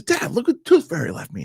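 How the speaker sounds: put-on very high little-kid voice; seven-year-old daughter. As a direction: imitate a child showing dad a find. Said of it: "she goes".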